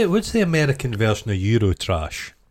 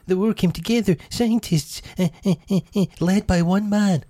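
imitating Diana; 9 semitones higher than usual. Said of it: "she also says".

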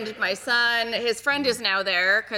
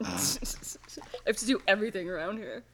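whiny complaint; 2 semitones lower, 8 dB quieter, faster than usual. Acted. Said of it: "You're gonna stamp your foot when you say that".

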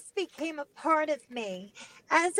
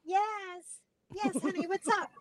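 mom voice; 2 semitones higher, 4 dB quieter, slower than usual. Retold or imitated. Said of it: "I could talk like a girl".

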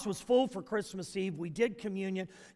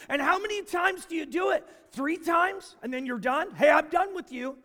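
a light hammed-up voicing of Jesus, higher and louder; mock exasperated Jesus; 9 semitones higher, 6 dB louder than usual. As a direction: play Jesus needling the disciple. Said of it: "He goes".

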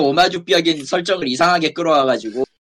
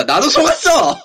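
laughing; 9 semitones higher, 6 dB louder than usual. Real, not acted. Admitting being fooled.

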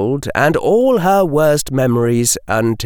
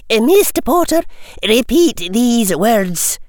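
Scottish teacher; 11 semitones higher than usual. A narrator's reading. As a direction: command like a stern schoolmistress. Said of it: "said Professor McGonagall".

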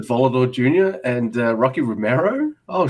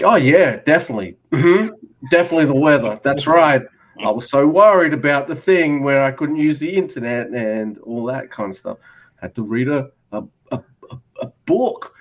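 sarcastic agreement; 2 semitones higher, 4 dB louder than usual. Retold or imitated. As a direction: overplay agreeing that the weather was to blame. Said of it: "I'm like".

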